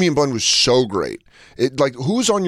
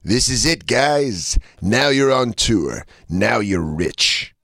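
slow manager voice; much slower than usual. Retold or imitated. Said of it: "Where they're like".

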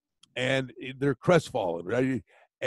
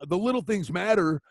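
raised voice; 3 semitones higher than usual. Retold or imitated. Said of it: "I said".

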